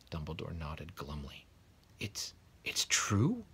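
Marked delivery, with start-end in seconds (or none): 2.0-3.5 slow, breathless whispered question; faltering whisper. A narrator's reading. McGonagall asking Dumbledore if the rumour is true, faltering whisper. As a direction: barely dare to ask it. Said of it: "faltered Professor McGonagall".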